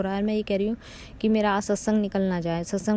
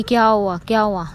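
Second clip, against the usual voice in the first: louder retold call of a worried husband; 7 dB louder than usual. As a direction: call out to wake her, anxious. Husband calls out, waking her. (पति की चिंतित होकर ज़ोर से पुकार)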